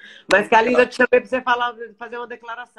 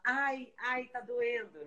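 higher and softer, a fake little ai ai; mock whimper of pain; 5 semitones higher, 7 dB quieter, much slower than usual. Host mocking a stubbed-toe complaint, higher and softer. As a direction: whine it like a hurt kid pretending. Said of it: "dá pra você falar".

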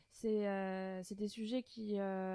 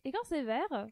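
higher, measured rule announcement; game-host voice; 3 semitones higher than usual. Pretend. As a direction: present each rule like a host. Explains rules in game voice.

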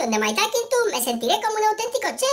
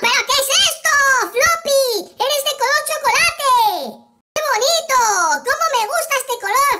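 delighted surprise; 4 semitones higher, 3 dB louder than usual. Acted. Delighted at pet's colour.

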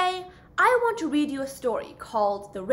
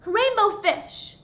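calling after him; 8 semitones higher than usual. Acted. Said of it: "he called".

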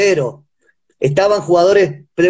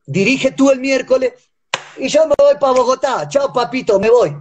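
rising higher, heated scornful quitting rant; angry retold rant; 3 semitones higher than usual. Coach retelling how he quit on the president, rising heated scorn. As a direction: throw the job back at him, building higher.

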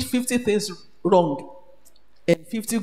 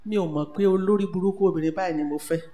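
rapid complaining husband; 2 semitones lower, much faster than usual. Retold or imitated. Husband's Yoruba complaint voiced.

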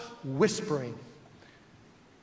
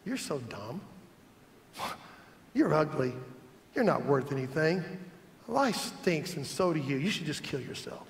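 lower, soft taunting murmur; Satan whispering; 4 semitones lower, 6 dB quieter than usual. Retold or imitated. Preacher voicing Satan's whisper to the insecure, soft. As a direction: murmur the insults low and close. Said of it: "he whispers".

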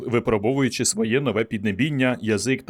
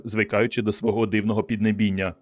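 ordinary delivery

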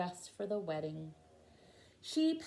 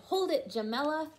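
higher, bright call to hold still; excited shout; 7 semitones higher, 3 dB louder, faster than usual. A narrator's reading. Photographer Archie calling to Jamela, a raised shout. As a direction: shout it out to freeze her for the photo. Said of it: "and shouted".

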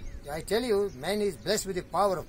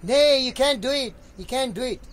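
mock naysayer, pitched up and louder; 4 semitones higher, 4 dB louder than usual. Speaker quotes the doubting majority, mock naysaying. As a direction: voice a discouraging naysayer, higher at the start. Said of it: "They will say".

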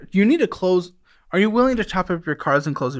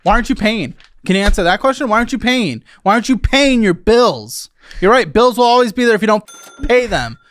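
pressing, raised-voice demand; frustrated, emphatic telling-off; exasperated scolding; 3 semitones higher than usual. Real, not acted. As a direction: grill them insistently. Host scolds guest over bills.

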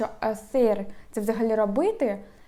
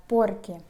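"porque" with the stress on POR; stress on first syllable. Shown as a demonstration. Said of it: "наголос на перший склад".

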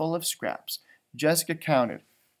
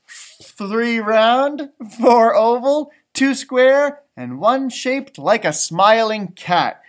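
higher and louder, a hint of eager girl; lightly voiced girl Laura; 5 semitones higher, 13 dB louder, much slower than usual. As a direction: hand them over brightly as a little girl. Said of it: "said Laura".

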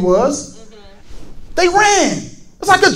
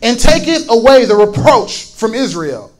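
lower, measured Bible reading; solemn read-aloud scripture in a lower pitch; 3 semitones lower than usual. A narrator's reading. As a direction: read the verses out deliberately to a congregation.

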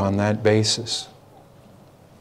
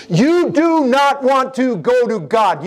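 stern warning; 13 semitones higher, 4 dB louder, slower than usual. Acted. Preacher warning congregation.

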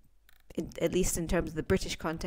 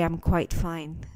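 put-on old-fashioned stiff reply; slower than usual. Shown as a demonstration. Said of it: "don't ever say".

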